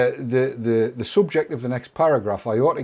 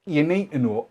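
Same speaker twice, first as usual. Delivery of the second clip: normal talking voice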